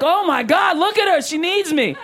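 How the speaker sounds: a mock swooning savior, distress drawn out slow at the end; mock concerned white person. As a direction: play the overeager rescuer, laughing at it. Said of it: "You're like".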